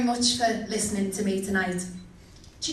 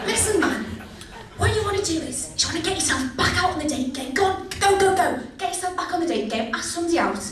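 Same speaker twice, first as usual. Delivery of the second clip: put-on girlfriends' voice; 5 semitones higher than usual. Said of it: "yeah, stop".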